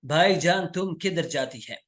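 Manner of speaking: light imitation of a Pathan Urdu accent, with "तुम किधर जाती है" in Pathan grammar; hint of a Pathan accent, played for the lesson. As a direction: mimic how a Pathan asks "भाईजान तुम किधर जाती है?". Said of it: "अक्सर औकात पठान लोग होते हैं, वो कहते हैं".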